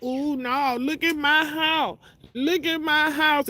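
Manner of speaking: mocking how she thought the speaker would brag, high and slow; mock bragging. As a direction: ham up a show-off.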